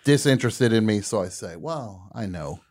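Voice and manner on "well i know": timid small talk. Retold or imitated. Retelling his timid small talk.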